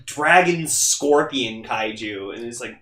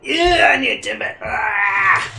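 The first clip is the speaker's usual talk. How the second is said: high mock wail for a treat; hammed-up craving; 7 semitones higher than usual. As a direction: squeal in playful need, high-pitched. Playful demand for a Timbit.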